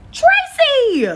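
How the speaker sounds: loud, high wailing cry of a name; mock outrage. Real, not acted. Called out in front of people, loud high wail.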